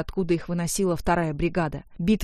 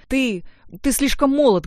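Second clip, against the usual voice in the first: higher, louder protest; heated, raised-pitch rebuttal; heated objection; 6 semitones higher, 5 dB louder than usual. A narrator's reading. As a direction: object hotly, stumbling on the first word. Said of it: "горячо возразил Эдуард".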